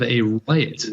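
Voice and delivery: emphasis landing on "right"; "right" set out as the key word; stress on right. Real, not acted. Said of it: "I stress that word".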